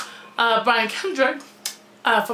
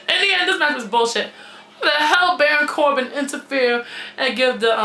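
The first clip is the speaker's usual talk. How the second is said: laughing through words. Real, not acted.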